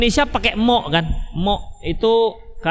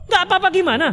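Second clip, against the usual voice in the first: pressing husband; 9 semitones higher, faster than usual. Acted. Husband presses his wife for an answer, insistent and higher. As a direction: push her for an answer.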